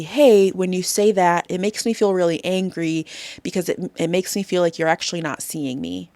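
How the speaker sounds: calm, steady, sincere statement of feeling; name the anger evenly, without attacking; speaking for anger. Shown as a demonstration. Therapist demos calmly naming anger to family, sincere and steady. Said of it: "Speaking for the anger might be".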